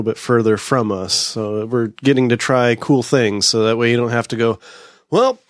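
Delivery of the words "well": high, slow whiny drinker; bored drinker voice. Retold or imitated. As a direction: whine it out like a jaded regular. Mocking bored beer drinkers.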